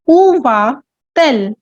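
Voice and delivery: où slowed for learners; slow model question. Shown as a demonstration. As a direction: spell it out slowly for learners. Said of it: "Here we have used the inversion method".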